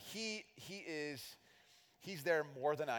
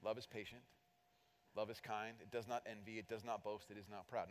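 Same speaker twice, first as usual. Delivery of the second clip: reading scripture; 4 semitones lower, 8 dB quieter than usual. Shown as a demonstration. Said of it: "Starts like this".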